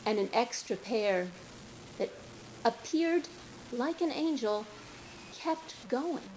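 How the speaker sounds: measured poem recital with long pauses; poetry reading. Acted. Poet reading verse to an audience, measured and deliberate. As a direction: read it line by line, letting each phrase land.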